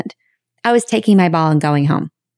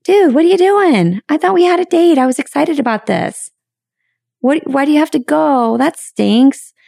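upbeat protest; 9 semitones higher than usual. Retold or imitated. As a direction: let the disappointment out brightly. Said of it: "I could have said".

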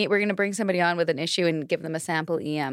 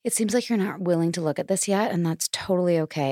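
even, measured coach-speak reassurance; lightly acted patient reassurance; mock empathy. Shown as a demonstration. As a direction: play the understanding coach, gently condescending. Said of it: "if it was really real, it'd be".

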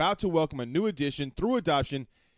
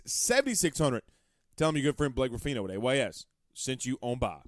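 ad read. Acted. Host reading a sponsor spot, upbeat ad voice. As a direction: sell the law firm like a radio spot.

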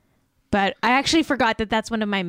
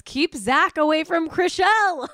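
slow, loud dramatic chat read; reading chat aloud, mock drama; 7 semitones higher, 6 dB louder, slower than usual. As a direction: announce it like a warning. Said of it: "Lord Gugu in the chat says".

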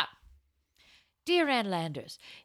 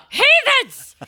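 mock yell; 12 dB louder than usual. Mother scolding in the abbey.

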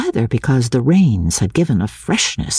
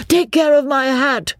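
excited cry; 11 semitones higher than usual. A narrator's reading. Beebe crying out in game.

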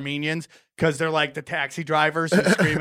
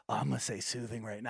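sly mock aside; 8 semitones lower, 17 dB quieter, faster than usual. Acts out setting up the word.

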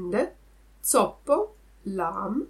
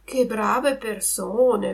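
inner thought; 2 semitones higher, 3 dB louder, slower than usual. Acted. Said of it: "pensò dentro di sé Pinocchio".

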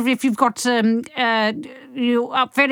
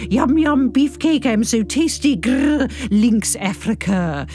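macho inner voice; slower than usual. Acted. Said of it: "The mind shouting".

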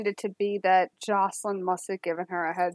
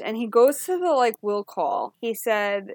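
ordinary talk, nothing marked

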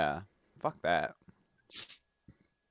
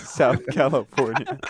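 laughing; 4 dB louder than usual. Real, not acted. Retelling the joke, laughing.

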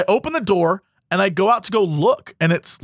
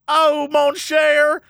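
slow, higher swooning woman; lightly voiced Rogue; 6 semitones higher, much slower than usual. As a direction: swoon the line like the cartoon Rogue. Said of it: "She was like".

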